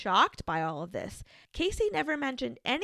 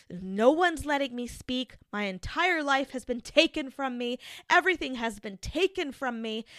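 mildly raised, upset voice quoting a frantic daughter; half-acted rant, a bit louder, pushing each line out; imitating a daughter freaking out to her parents in prison, somewhat louder; retold raging outburst; 3 semitones higher, 4 dB louder than usual. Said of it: "Casey starts raging".

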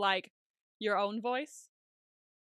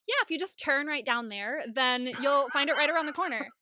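higher, louder retail helper voice; customer service voice; 4 semitones higher, 4 dB louder than usual. Shown as a demonstration. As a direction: put on a polite voice for a customer. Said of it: "if I'm talking to a customer".

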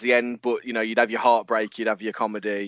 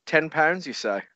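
put-on Scouse accent; 5 semitones higher than usual. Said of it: "Just a Scouse voice going".

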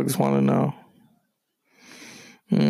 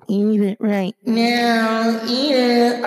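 commanding; 7 semitones higher, much slower than usual. Acted. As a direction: order them to eat it. Commanding the country.

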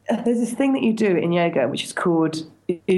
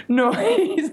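honking burst of laughter; foghorn laugh; 7 semitones higher than usual. Retold or imitated. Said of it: "made this weird sort of, like, foghorn".

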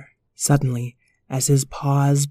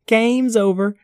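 puppy voices; 6 semitones higher than usual. Acted. Puppies chat about flying.

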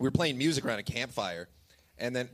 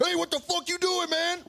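high-pitched, bad Mexican accent; terrible Mexican accent. Man confronting a stranger in the dark, bad Mexican accent. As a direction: challenge him in a put-on Mexican accent. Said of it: "That's a terrible Mexican accent".

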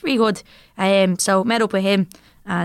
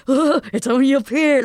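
imitating a quirky man, slower and higher; lightly mock-eager, drawn out and raised; quirky host; 4 semitones higher than usual. Quirky man urging wary friends up the hill, imitated. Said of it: "he was real quirky then".

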